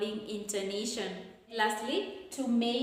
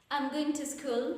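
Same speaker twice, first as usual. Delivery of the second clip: statement starting high and coming down on "school"; falling intonation; 4 semitones higher than usual. Shown as a demonstration. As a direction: let "school" drop to close the statement. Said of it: "will take a falling intonation".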